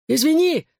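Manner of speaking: high panicked call while fleeing; thrown over the shoulder. A narrator's reading. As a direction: shout it back in panic. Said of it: "бросил он через плечо".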